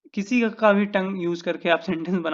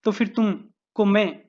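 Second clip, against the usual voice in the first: stern warning; 3 semitones higher, 4 dB louder than usual. Shown as a demonstration. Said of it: "मैं अगर बोलता हूँ".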